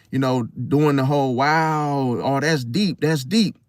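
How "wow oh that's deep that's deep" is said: understated mock-impressed tone; subtle sarcasm. Person mocking your emotional depth, subtly sarcastic. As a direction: feign being impressed, lightly. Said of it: "That's them being sarcastic".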